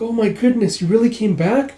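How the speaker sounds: lightly voiced old lady, high-pitched; high, surprised old lady greeting; a hint of an old lady exclaiming. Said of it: "you see this old lady".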